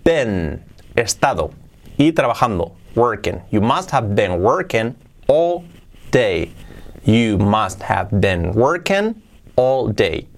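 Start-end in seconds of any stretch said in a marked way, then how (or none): 3.5-10.3 slow, each word set apart. Shown as a demonstration. Teacher models the phrase for learners, slow and separated. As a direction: spell out the phrase slowly, pausing before DAY. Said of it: "sería así".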